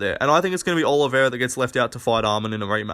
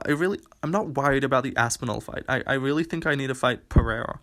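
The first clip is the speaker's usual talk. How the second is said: softly put-on, mocking whine of reluctance; hushed, mildly camp mock voice; mocking effeminate voice; 6 dB quieter than usual. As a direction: lightly imitate a fighter making excuses, softer. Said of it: "do his little fucking gay voice".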